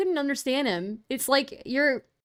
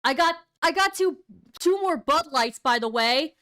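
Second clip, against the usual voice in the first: lightly imitated boaster, pitched up; mocking drunk streamer; 5 semitones higher than usual. Reactor mocking a streamer's drinking boast, lightly put-on higher voice. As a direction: mimic someone showing off their beers. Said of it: "It's like he's sitting there".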